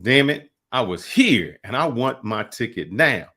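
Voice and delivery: mock-angry traveler demanding his ticket; irate demand. Retelling an angry white tourist at a train booth, mock irate. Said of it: "And he got irate".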